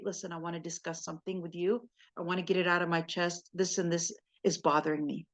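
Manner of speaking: low, soft confiding to a husband; calm opening up. Shown as a demonstration. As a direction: gently raise what bothers you. Models calmly raising a problem with husband.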